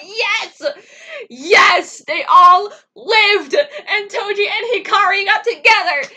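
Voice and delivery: loud, high, slow sobbing cheer; teary cheering. Retold or imitated. Reliving the movie, loud tearful cheering. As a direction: cheer through happy tears. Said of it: "and I was like".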